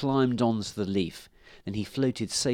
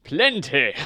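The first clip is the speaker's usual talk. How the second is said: higher, louder welcome; lightly voiced hospitable horse; friendly horse; 6 semitones higher, 7 dB louder than usual. A narrator's reading. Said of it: "said the friendly horse".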